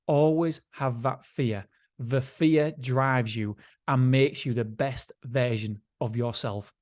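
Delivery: slow, weighty read-aloud with long pauses; dramatic letter reading. Acted. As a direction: read it out like solemn advice, measured and deliberate.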